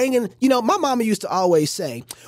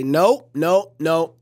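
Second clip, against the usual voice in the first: firm refusal; 4 semitones lower, 4 dB louder, much slower than usual. Shown as a demonstration. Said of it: "stop the conversation right there and say".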